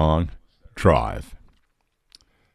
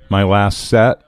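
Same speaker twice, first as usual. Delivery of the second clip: mouth full; slower than usual. Real, not acted. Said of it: "Sorry, I have something in my mouth".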